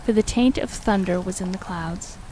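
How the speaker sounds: measured, formal gothic storytelling; story narration. Acted. Streamer reading Lovecraft aloud to viewers, measured gothic narration. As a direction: read it aloud with deliberate, weighty phrasing.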